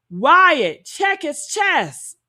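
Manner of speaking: high, drawn-out mock urgent call; imitated calling out. Someone on a boat calls to Wyatt, imitated calling out. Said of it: "Then I heard".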